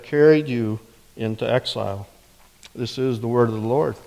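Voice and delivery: measured, solemn reading of the verse; scripture reading. Acted. Pastor reads Jeremiah to the congregation, solemn reading voice. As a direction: read it as the word of the Lord, deliberate.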